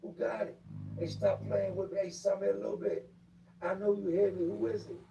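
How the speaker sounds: high, loud call through the vent; yelling through a vent. Retold or imitated. Inmate yelling through the vent to find the smoker, high and loud. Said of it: "I hear the guys yelling through the vent".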